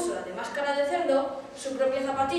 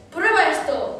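a louder angry bellow; 3 semitones higher, 6 dB louder, slower than usual. A narrator's reading. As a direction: snarl it as you strike. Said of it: "bramó Su Alteza". (bramido furioso y más fuerte)

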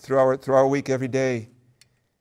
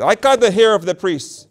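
a touch louder and higher, gloating; demon voice; 5 semitones higher, 5 dB louder than usual. Acted. Demon boasting about priests, mild loud. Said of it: "He said".

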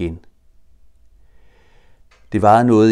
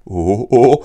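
much louder startled cry; 4 semitones higher, 11 dB louder than usual. Acted. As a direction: yell as he flies past. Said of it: "råbte han".

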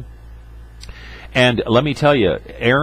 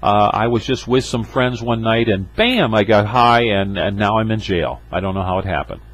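mock addict excuse. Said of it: "many times addicts will say".

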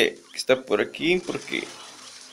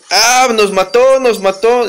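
excited shout; 8 semitones higher, 8 dB louder, slower than usual. Real, not acted. Killed in game, reacts.

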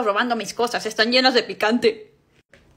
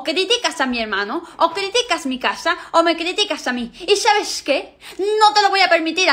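rising anger; 4 semitones higher than usual. Acted. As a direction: stand up to the rude old aunt. Girl confronts the aunt.

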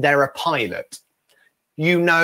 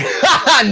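high, loud imitated laugh; mock laughter; 11 semitones higher, 5 dB louder than usual. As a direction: imitate a friend laughing off the request. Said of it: "Stephen's laughing".

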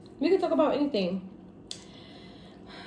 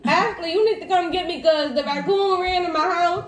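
panicked phone call; 4 semitones higher, slower than usual. Retold or imitated. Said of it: "you was gonna be like".

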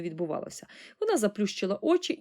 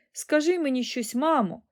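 higher-pitched anxious plea; raised voice with a touch of worry; worried daughter; 6 semitones higher than usual. A narrator's reading. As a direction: plead with mother, worried. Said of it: "занепокоїлася пані Бакет".

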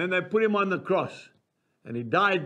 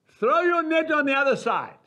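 calling across the water, raised voice; a raised call from the shore to the boat; 6 semitones higher, 3 dB louder than usual. Acted. Jesus calling to the fishermen in the boat, raised voice.

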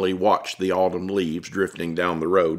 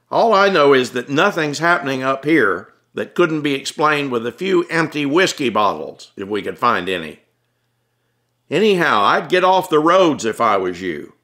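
raised voice of a weary cop; gruff cop, exasperated; 4 semitones higher than usual. Acted. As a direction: brush it off, tired of the panic. Cop answers Tom, exasperated.

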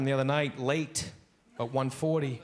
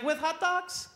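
high gentle grandma voice; sweet grandma; 13 semitones higher, slower than usual. Retold or imitated. Grandma offers hot dogs with eggs, high and gentle. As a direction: tempt the kid.

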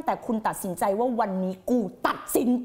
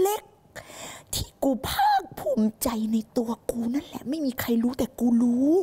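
slow confiding whisper; slower than usual. Real, not acted. The teacher confides her hidden pride to viewers, whispering slowly. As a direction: breathe it like a secret only you know.

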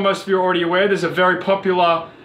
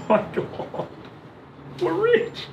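shrieking jackpot winner; 11 semitones higher, 7 dB quieter than usual. Real, not acted. Hears about OnlyFans money on phone.

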